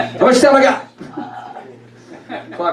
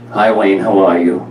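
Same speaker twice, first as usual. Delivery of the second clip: flat monotone mom; 3 semitones lower than usual. Retold or imitated. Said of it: "this is how she talked".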